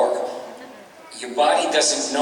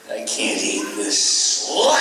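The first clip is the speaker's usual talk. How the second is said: Kirk Douglas impression. Voice actor showing Ren's Kirk Douglas root, emphatic. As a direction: bark the last word like a hammy film star. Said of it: "Kirk Douglas was like".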